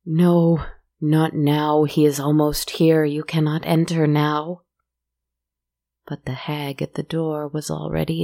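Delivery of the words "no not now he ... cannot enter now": loud, desperate refusal; anguished loud plea. Acted. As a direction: beg her loudly to stay out. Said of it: "The woman moaned in agony".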